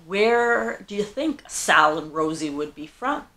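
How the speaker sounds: put-on lightly done Brooklyn accent; a hint of a Brooklyn accent, half-hearted. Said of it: "I say with a little bit more like I'm, uh, from Brooklyn".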